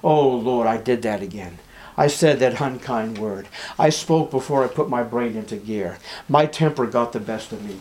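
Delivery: mildly groaned confession to God; a touch of weary self-reproach; rueful groaning. Acted. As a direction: act out a low-key, regretful prayer. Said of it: "Do you groan about yourself".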